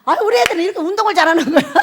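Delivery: delighted praise. Acted. Parent voiced praising children.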